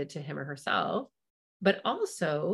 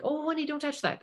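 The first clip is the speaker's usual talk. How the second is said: sweet gentle warning; 9 semitones higher than usual. Retold or imitated. Bank lady gently warning a four-year-old off the stapler. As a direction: coo a mild caution. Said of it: "was like".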